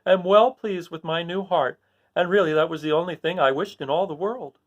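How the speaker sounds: a contented tin man, lightly voiced; Tin Woodman. Tin Woodman telling friends about his heart. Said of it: "said the Tin Woodman".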